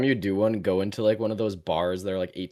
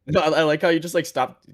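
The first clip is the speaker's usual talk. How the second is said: laughing; 6 semitones higher, 9 dB louder than usual. Real, not acted. Laughing at friend's joke.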